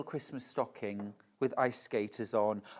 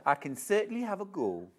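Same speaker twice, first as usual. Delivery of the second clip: quicker second Geordie take; faster Geordie attempt; 5 semitones higher, faster than usual. A second Geordie try for the viewer. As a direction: rattle it off in Geordie. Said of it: "can you do a Geordie accent".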